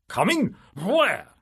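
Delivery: high startled double question; taken aback, high; surprised. Acted. Civil servant surprised.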